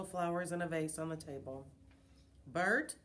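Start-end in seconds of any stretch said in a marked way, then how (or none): 2.5-3.0 raised calling voice. Acted. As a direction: call out across the house. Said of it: "called out".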